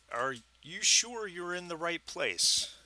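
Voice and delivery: put-on a clerk's prim British accent, guarded. Hotel clerk questions the scruffy arrivals, light British accent. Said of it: "with a very British accent".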